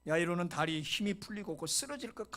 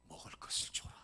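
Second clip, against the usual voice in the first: soft instruction; 5 dB quieter than usual. Acted. Jesus gently instructs the family.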